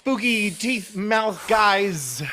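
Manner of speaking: loud, drawn-out heroic yell; battle shout. Acted. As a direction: stretch the taunt out at full voice. Player shouts at monsters while throwing pickaxe.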